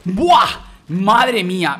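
wowed, very loud gamer reaction; blown away. Real, not acted. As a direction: exclaim like you can't believe it. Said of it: "me flipo".

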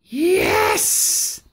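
high, happy yes; cheerful yes. A narrator's reading. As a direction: say yes with delight. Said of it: "said the witch".

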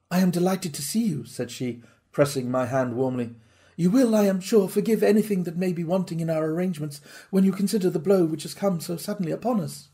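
hint of a gracious, troubled hostess; lightly voiced lady.

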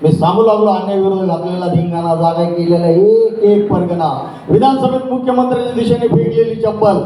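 rising declamation of a protest poem, each line given twice; stage poetry reading, lines repeated for effect; poem recitation. Acted. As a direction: recite to the hall with building passion. Poet recites his poem.

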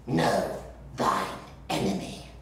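put-on a touch of grand old-English gravity; mock solemn saying. Reenactor quoting an old saying, lightly solemn. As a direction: intone the proverb with mild pomp. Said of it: "You know what they say".

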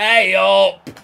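loud sudden protest; loud outcry. Real, not acted. Gamer protesting loudly at the referee. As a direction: bark it at the ref. Outburst at ref.

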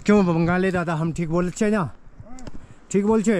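playful mock Bengali-accented Hindi; teasing a Bengali friend in his accent. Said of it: "Bangla बोलना". (मज़ाकिया बंगाली लहजे में हिंदी)

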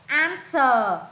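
"Answer" slowly, ending on a schwa "ờ". Shown as a demonstration. Teacher showing the odd one out, schwa ending on "Answer". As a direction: draw out the final uh of "Answer". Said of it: "à, chữ ờ".

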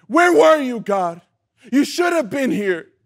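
anguished cry. Acted. Preacher voices the hurt asking God, crying out. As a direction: hurl the question up at heaven. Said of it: "isn't that the cry we do".

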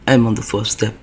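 low, quiet creeping rasp; creepy raspy voice. Retold or imitated. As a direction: taunt softly from the stairs. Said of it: "That creepy goddamn voice".

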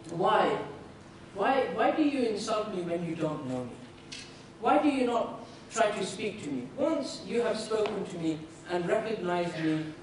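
low, measured questioning; gentle, unhurried appeal; patient reasoning. Retold or imitated. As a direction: reason calmly with a hostile man, pitched low. Prophet patiently reasons with hostile Bedouin.

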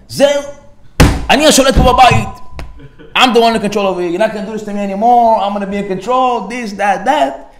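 a hammed-up husband putting his foot down; mock defiant outburst. Husband asserts control at home.

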